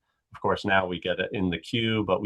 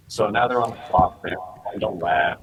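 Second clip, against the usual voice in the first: robotic glitchy connection audio; robot voice from a bad connection. Real, not acted. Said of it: "like a machine, you know, like a robot".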